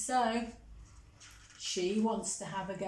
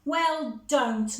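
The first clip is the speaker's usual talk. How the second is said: louder, a cross snap; scowled; 4 semitones higher, 5 dB louder than usual. Acted. Monty telling his sister not to help, scowling. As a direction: cut her off crossly. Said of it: "Monty scowled".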